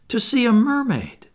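high, loud longing wonder; cried out. A narrator's reading. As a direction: exclaim with thrilled yearning. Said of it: "cried Wendy".

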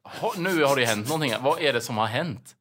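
something's happened, find out what; alarmed. Retold or imitated. Reacting to the neighbor's cry with alarm.

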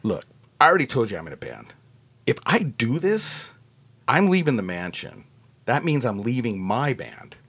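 low, hushed sincerity; earnest explanation. Retold or imitated. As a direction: explain it gravely and gently. Retells earnest refusal to James.

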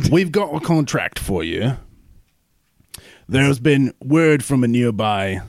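a lightly put-on dwarf captain accent; captain handing the squad a contract, lightly accented voice. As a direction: play the gruff dwarf captain briefing his squad. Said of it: "It sounds like a Syrian".

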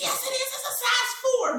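put-on high, child-like daughter voice; mother mimicking her daughter; imitating daughter. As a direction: play the insistent little girl. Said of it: "She's like".

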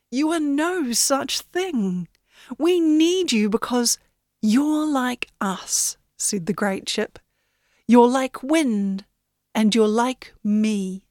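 slow down and reassure her; gentle ship voice. Acted. Great ship reassures Yenny.

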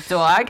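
"dog" said as DAWG; New York-accented "dog"; New York pronunciation. Retold or imitated. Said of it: "said dog like that".

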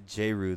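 "Jeru" said as JAY-roo; pronunciation demo. Shown as a demonstration. Co-host gives his own version of the name, "Jeru" as JAY-roo. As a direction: say "Jeru" with a long AY first. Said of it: "I say that it's".

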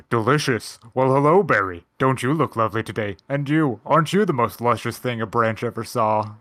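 lightly voiced seductive flirt, trying to go low; Bibble. Host quoting Bibble flirting with berries, mock seductive. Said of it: "in an incredibly low voice".

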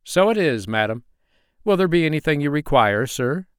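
a courteous butler offering help. Acted. Butler character voice.

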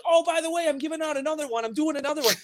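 high sing-song imitation of cohost; mocking imitation. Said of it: "every week it's like".

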